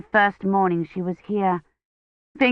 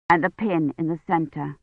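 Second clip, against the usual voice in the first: ordinary delivery, nothing marked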